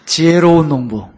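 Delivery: 지혜로운 농부 said loud and crisp; clear, loud retake. Shown as a demonstration. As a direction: repeat it loudly and cleanly. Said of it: "저도 아침에 혀가 막 꼬여요". (또렷하고 크게)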